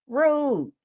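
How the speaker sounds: a deadpan, clipped verdict of Rude; flat rude. Real, not acted. Host judging the date in a deadpan tone.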